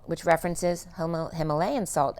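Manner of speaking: strained, fading voice going hoarse; losing voice. Real, not acted. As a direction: speak as your voice gives out. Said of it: "as I'm losing my voice again".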